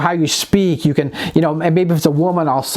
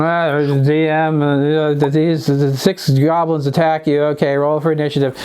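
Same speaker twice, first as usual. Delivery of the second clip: bored flat DM; 3 semitones lower than usual. Retold or imitated. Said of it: "If you're kind of a sit there".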